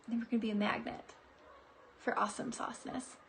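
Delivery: soft fast half-whisper; hushed. Real, not acted. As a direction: tuck it in quietly. Playful hushed aside.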